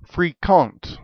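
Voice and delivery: French-accented "fréquent", set apart as a foreign word; French pronunciation. Shown as a demonstration. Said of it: "It is from the Old French".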